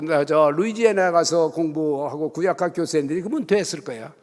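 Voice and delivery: ordinary talk, nothing marked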